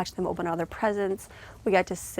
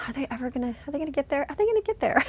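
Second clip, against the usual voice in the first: mock worried; 6 semitones higher, faster than usual. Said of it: "and you're like".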